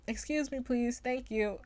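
lightly voiced prim politeness, pitched high; a dainty, over-polite little request; prim and proper. Friend imitates her prim sleep-talk, mock proper and high. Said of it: "the most proper thing you could ever say".

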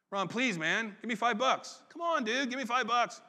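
mock pleading, rising on come on; begging. Preacher imitates begging a friend, mock pleading. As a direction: wheedle a friend for cash, half-joking. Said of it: "That approach is begging".

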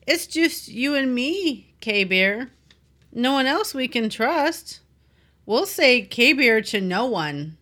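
slow dramatic reading. Acted. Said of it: "I'm just gonna read it".

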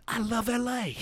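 laughing. Pretend. Mocking the movie's love of L A.

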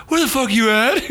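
lightly voiced irritated buddy; teasing a friend by imitating his call; imitating Kerwin. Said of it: "Wow, I sound like that?".

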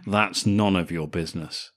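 lightly cheeky brush-off; playful, coy refusal. Acted. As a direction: say it with a little cheek, at normal pitch. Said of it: "says it in a cheeky way".

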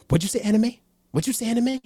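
high incredulous double take; surprised. Real, not acted. Mock disbelief at mispronunciation.

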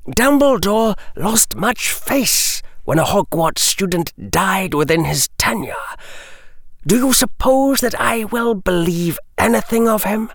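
a silky lord mocking the boy; disdainful noble voice; Lucius's voice. Lucius scoffs at Harry.

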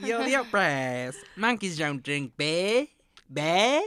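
high, loud, slow put-on Aussie voice; movie quote voice. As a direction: ham up a silly movie line.

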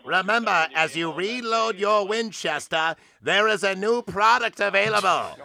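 put-on old radio announcer. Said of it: "Old-timey radio?".

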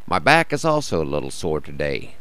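rough, croaky morning voice; a bit hoarse and croaky. Real, not acted. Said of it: "have left me a little croaky".

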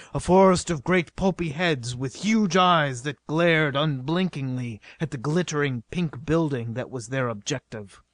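ordinary delivery, nothing marked

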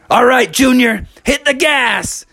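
a lightly voiced Bubby giving the go; Bubby calling. Bubby tells Junior Bear to hit the gas, a light call. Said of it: "he said".

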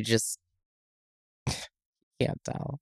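breathy whispered aside; whispering. Real, not acted. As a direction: drop to a whisper. Trailing off in disbelief.

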